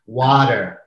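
"Water." with the English vowel, mild demo. Shown as a demonstration. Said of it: "when I say water".

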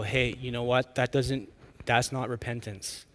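gently voiced parental correction; loving correction. Parent brings the kids back after a bad apology, lovingly. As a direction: softly imitate a parent correcting kindly. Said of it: "bring them back lovingly and go".

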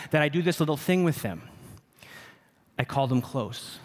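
ordinary talk

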